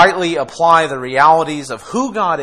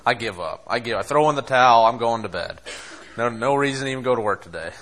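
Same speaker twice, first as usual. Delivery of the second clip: low, much softer mopey groan; self-pitying mope, lower and quieter; moping; 5 semitones lower, 4 dB quieter, faster than usual. Retold or imitated. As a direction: sulk like you've given up on the day. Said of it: "I'll mope and mope and be like".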